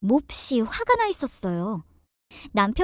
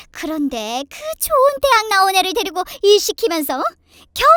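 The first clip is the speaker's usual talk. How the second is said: indignant retort leaping into high outbursts; sarcastic mother-in-law; 6 semitones higher, 6 dB louder than usual. Acted. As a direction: give mock thanks, then argue back. (비꼬며 되받아치는 시어머니)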